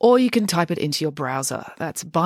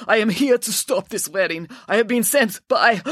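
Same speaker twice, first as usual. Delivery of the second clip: raised voice running out of air; struggling for breath; 5 semitones higher than usual. A narrator's reading. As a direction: push the message out while winded. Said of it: "She struggled for breath".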